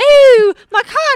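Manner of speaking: bad, poor put-on British accent. Acting out what a woman said about her cat, in a poor British accent. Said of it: "A poor British accent".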